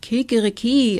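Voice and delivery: crowed kikeriki; rooster crow. A narrator's reading. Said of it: "und rief".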